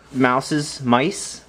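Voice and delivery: unsure mice. Real, not acted. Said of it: "I guess mice would work also".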